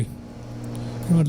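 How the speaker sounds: slow, breathy conspiratorial whisper; whispered aside. Real, not acted. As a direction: lean in and whisper it slowly. Pilot mulls a risky idea.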